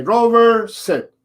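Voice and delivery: one clean command, no repeats; firm dog command. Shown as a demonstration. Trainer repeating the correct command for the owner, crisp. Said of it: "You're gonna say".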